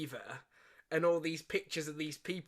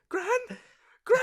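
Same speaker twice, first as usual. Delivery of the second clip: higher, calling gran in alarm; worried call; 4 dB louder than usual. Retold or imitated. Boy seeing his nan on the conveyor belt, alarmed. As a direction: call out to a gran who won't wake. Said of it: "he's like".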